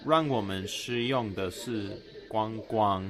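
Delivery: slow, careful non-native Mandarin; halting learner's Mandarin; foreigner speaking mandarin. Real, not acted. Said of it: "my Chinese is so slow".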